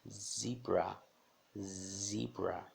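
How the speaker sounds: ZEBRA com Z vibrado, como no português. Shown as a demonstration. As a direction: diga ZEBRA em inglês, Z sonoro. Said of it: "parecido com o do português".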